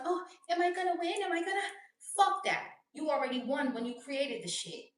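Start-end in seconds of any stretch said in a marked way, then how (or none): 0.0-1.6 mock anxious worrier. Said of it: "So you're not depending on". 2.2-2.7 dismissive. Real, not acted. Dismissing the worried voice.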